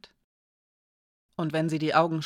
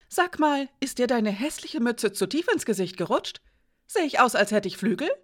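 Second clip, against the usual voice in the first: higher, scornful mockery; insulting; 5 semitones higher than usual. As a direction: sneer at the boy's cap. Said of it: "Janka andere Leute beleidigen konnte". (Janka verspottet Edik, schnippisch und höhnisch)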